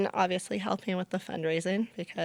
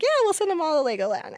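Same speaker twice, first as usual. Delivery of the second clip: grand promise; 11 semitones higher, 6 dB louder, faster than usual. Retold or imitated.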